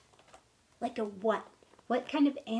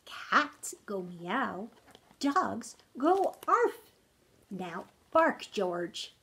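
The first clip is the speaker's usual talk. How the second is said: patient mother; slower than usual. Acted. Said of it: "said George's mother".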